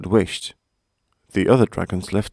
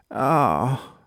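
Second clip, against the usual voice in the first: pained groan; 4 semitones higher than usual. A narrator's reading. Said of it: "he groaned".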